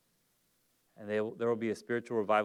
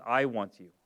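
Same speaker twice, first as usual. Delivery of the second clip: tender reassurance. Retold or imitated. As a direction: say it gently as the husband. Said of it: "he comes in and says".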